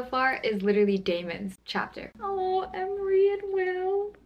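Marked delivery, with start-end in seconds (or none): 2.2-4.1 high, slow, near tears; choked up. Real, not acted. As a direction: voice catching as it breaks. Reacting to a sad scene.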